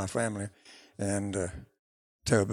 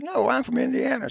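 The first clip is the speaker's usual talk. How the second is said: a high, lilting southern Indiana drawl; 14 semitones higher, 3 dB louder than usual. Retold or imitated. Singer from southern Indiana answering with her drawl. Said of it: "she had such a drawl".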